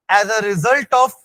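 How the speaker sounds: very slow, phrases repeated for note-takers; teacher's drawn-out dictation voice. Real, not acted. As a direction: dictate word by word, leaving gaps. Dictating next paragraph to students.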